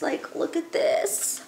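breathy aside, nearly silent; soft unvoiced look at this; hushed whisper. Real, not acted. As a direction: murmur it to the viewer, slow. Showing baby gifts to camera.

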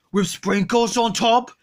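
put-on sluggish, drunk and lazy; Homer Simpson. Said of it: "Did you eat my donut?".

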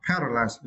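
"paralyzed" with "par" as in "parrot"; teacher's second way of saying "paralyzed", PARR-uh-lize; alternative pronunciation. Shown as a demonstration. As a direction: offer "paralyzed" with a short flat a in "par". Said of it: "or you also can pronounce".

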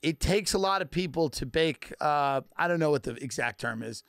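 sway the jury like a slick lawyer; a hammed-up closing argument, slowing for effect; mock defense attorney. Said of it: "he's acting like the attorney of Diddy".

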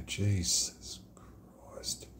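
slow, drawn-out whisper; mock disbelief. Viewers reacting to his sentimental speech, whispered. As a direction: breathe it out like a stunned onlooker. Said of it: "They're gonna look at me and go".

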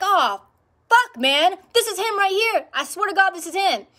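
high, emphatic outburst; retold excited recognition. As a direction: replay the shock of spotting him, pitch jumping up. Acts out recognising the spirit.

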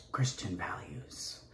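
breathy whisper to himself; whispering the phrase while thinking; whispered musing. Acted. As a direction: mull the words over under the breath.

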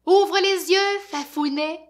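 exclaiming. Acted. Friends waking Fafounet, loud exclamation. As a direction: call him awake firmly. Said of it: "s'exclame la voix".

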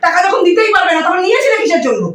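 angry yelling. Acted. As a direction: yell accusingly, demanding an answer. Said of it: "এত চিল্লাচ্ছেন কেন?".

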